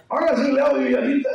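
high-pitched put-on voice; mock high voice. Preacher imitating someone for the congregation, high put-on voice. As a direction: play it high, in quick imitation.

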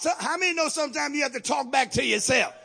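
loud, fast, shouted sermon; full-force preaching. Acted. Preacher rousing congregation, shouted preaching. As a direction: drive it home to the church.

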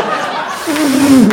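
high, breath-blown whistle attempt; imitated dog-call whistle; attempted cool whistle. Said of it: "that cool whistle?".

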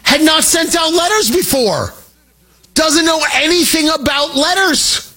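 ordinary talk, nothing marked

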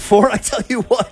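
playful copy of Southern talk; imitated Southern saying. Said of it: "maybe I should start my sentences".

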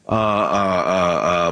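halting stammer; stuttering. Real, not acted. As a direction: trips over the words. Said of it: "that's why I'm stuttering".

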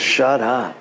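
low-pitched, restrained order; God's command. Retold or imitated. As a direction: imitate God firmly silencing someone. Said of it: "God says".

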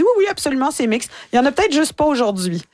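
high breezy receptionist voice; reassuring spa lady. Retold or imitated. Spa receptionist reassuring the Canadian comedian, in a high breezy voice. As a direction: brush off her worry brightly, pitched high.

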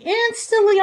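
instantly jumps high, stressed; emphatic repeat. Real, not acted. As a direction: hit instantly high the second time.

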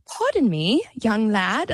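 a light take on a genteel grandmother; old lady answering the boy, lightly posh; mock proper old lady. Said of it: "she was like".

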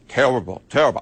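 a light, low Charles Barkley "terrible, terrible"; Charles Barkley impression. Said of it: "get my Charles Barkley".

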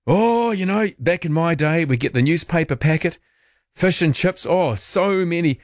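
high, wistful reminiscing voice; nostalgic old-timer. Retold or imitated.

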